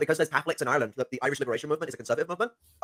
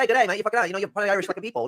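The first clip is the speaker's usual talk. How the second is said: mock Scottish; 5 semitones higher than usual. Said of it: "I know I gone Scottish".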